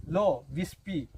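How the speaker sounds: slow, drawn-out mock anger; angry Rachna, lightly voiced; angry retort. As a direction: spit it back slowly. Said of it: "बेचारी रचना को क्या आया, गुस्सा".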